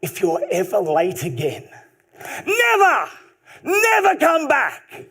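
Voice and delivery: put-on light Italian accent, exploding on the nevers; old Italian coach with a slight accent, yelling the threat. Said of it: "with a slight Italian accent".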